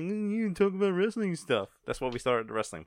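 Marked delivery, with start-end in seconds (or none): 0.0-1.7 mocking complainer. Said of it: "It's like people like".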